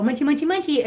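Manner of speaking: playful summons to a little kitty; calling the pet. Retold or imitated. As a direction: call the cat over in baby talk. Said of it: "So I just go".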